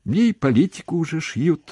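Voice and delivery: high, loud little brag; boastful. A narrator's reading. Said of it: "похвасталась она".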